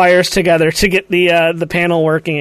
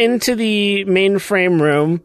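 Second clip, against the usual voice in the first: urgent and loud; 4 semitones higher, 3 dB louder than usual. Acted. Urgent escape.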